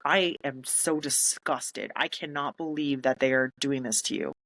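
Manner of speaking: slow, contained retold outrage; furious. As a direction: imitate a furious boss without raising the voice. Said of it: "And she was furious".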